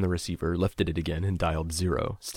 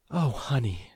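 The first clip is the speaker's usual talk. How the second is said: sympathetic mother; 5 semitones higher, slower than usual. A narrator's reading. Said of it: "She took a deep breath".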